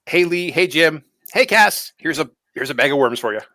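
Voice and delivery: bright, bubbly hellos; cheerful greeting. Retold or imitated. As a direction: greet everyone with sing-song cheer. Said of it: "every time we meet, like".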